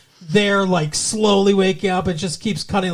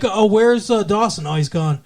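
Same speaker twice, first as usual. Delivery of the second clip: offhand, throwaway delivery; breezy, matter-of-fact aside; very casual; 3 dB louder than usual. Shown as a demonstration. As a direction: toss it off casually as if in passing. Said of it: "it's a very casual, almost like that".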